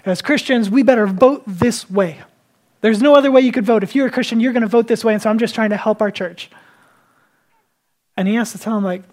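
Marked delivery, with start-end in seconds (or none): 0.0-6.5 mildly heated, insistent retelling; upset congregant. Retold or imitated. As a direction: imitate a man getting worked up, pushing his point. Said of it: "he's getting upset".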